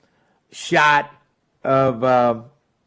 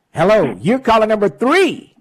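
radio contest promo; 5 semitones higher, 3 dB louder than usual. Real, not acted. Radio call-in contest countdown.

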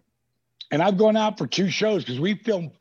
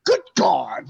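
"Good God" called out louder with a cry in it, catchphrase style; 4 dB louder than usual. Retold or imitated. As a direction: belt out "Good God" like a signature line. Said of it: "And I said".

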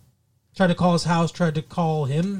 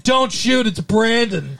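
flat weak delivery; 4 semitones higher, slower than usual. Retold or imitated.

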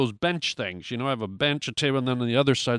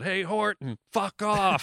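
higher, squeaky little voice snapping at Horton; tiny voice in his head; 5 semitones higher, slower than usual. Retold or imitated. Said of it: "there was a voice coming out. It said".

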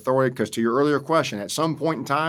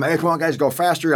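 a raised call of hurry up, pitched up and louder; urging the crew on; 5 semitones higher, 4 dB louder than usual. Retold or imitated. New corporal urging his working party on, raised voice. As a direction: push the guys to move faster, half shouting.

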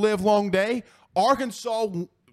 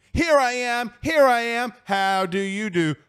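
lightly sung, higher sing-song nursery tune; mock kids' song voice; 4 semitones higher than usual. Host mocking Notre Dame as a kids' show, sing-song. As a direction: tease them like a children's cartoon. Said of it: "This isn't Coco Melon".

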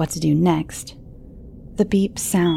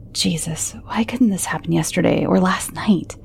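muttering. Acted. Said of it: "I mutter in disgust".

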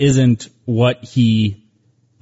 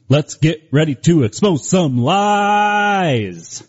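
booming ringmaster announcement. Pretend. Podcast show intro announcement.

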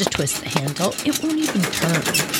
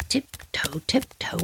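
tiptoe; 7 dB quieter, slower than usual. Retold or imitated. Sneaking to the trailer.

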